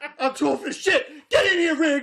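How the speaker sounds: loud, hard shouting pitched very high. Imitating a film cop calling his partner: imitating Danny Glover shouting. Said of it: "he's always shouting".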